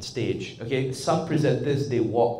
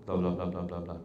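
low, soft string of "blah"; filler talk; 6 semitones lower, 7 dB quieter, faster than usual. Shown as a demonstration. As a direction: murmur placeholder chatter. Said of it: "I'll be talking".

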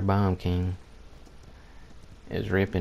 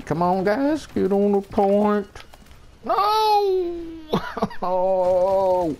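outcry; 11 semitones higher, much slower than usual. Real, not acted. Gamer dies, cries out.

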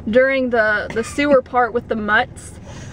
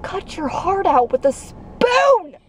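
mock threat; 6 semitones higher, slower than usual. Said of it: "She gets very violent".

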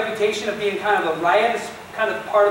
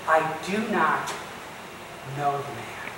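broken final denial; 6 semitones lower, 7 dB quieter than usual. Retold or imitated. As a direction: lower and much softer, fading to nothing.

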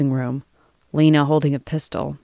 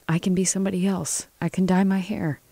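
higher-pitched, gentle voice for Lena; lightly voiced woman's plea, pitched up; soft, hopeful woman; 5 semitones higher, 3 dB quieter than usual. Lena dreams of escape with Joel, softly hopeful.

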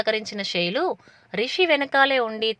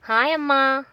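నవ్వుతూ; 5 semitones higher, 4 dB louder than usual. A narrator's reading. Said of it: "అన్నాడు రిషి లోపలికి రాగానే నవ్వుతూ".

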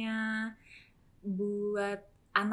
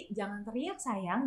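softened, mild motherly request; gentle mock hushing; 5 dB quieter, slower than usual. Mother quotes herself hushing Chloe in the car, gently. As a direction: gently ask a child to stop yelling.

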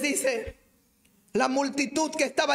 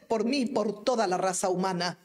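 ordinary talk

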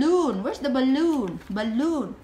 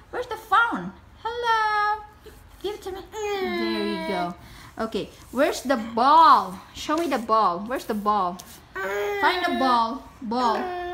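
put-on sing-song coaxing for a small child; reading to a toddler. Coaxing toddler to find toys.

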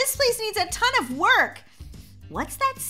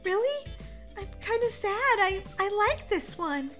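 disappointed; 7 semitones higher than usual. Acted. Wife disappointed at losing house.

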